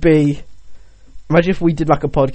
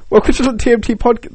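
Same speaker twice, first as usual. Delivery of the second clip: laughing announcer; 7 semitones higher than usual. Pretend. Podcast host voice with laugh.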